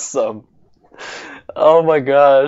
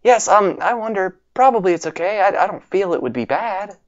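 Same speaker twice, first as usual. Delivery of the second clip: lightly voiced shy sick girl, a bit higher; 6 semitones higher than usual. Sakura asking Brandon to wash her back, shy girl voice. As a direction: voice the patient girl gently, a touch higher.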